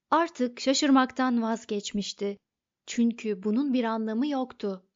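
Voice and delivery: plain reading voice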